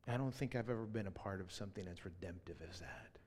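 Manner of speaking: breathy hushed awe at the moment; awed whisper. Retold or imitated. Pastor whispering his awed thought after the memorial. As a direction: whisper it like you can barely believe it. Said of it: "And I thought".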